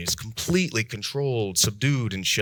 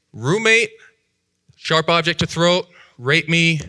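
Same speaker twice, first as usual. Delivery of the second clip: blurting it out; 7 semitones higher, 5 dB louder, slower than usual. Retold or imitated. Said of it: "I was like".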